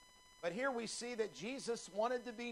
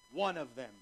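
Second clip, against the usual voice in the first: One hit hard and louder; stress on one; 4 semitones lower, 3 dB louder than usual. Shown as a demonstration. Preacher stressing the lost one to the congregation. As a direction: punch One, then let of them fall. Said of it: "Underline that word in your Bible".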